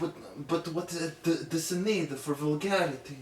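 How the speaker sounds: high, loud, outraged questioning; scandalized prude. Pretend. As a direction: sputter like a shocked elder. Mock scandalized elder.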